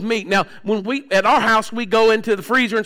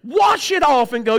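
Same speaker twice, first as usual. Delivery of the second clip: preaching at full force; 3 semitones higher than usual. Real, not acted. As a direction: hammer the point home to the congregation. Preaching emphasis.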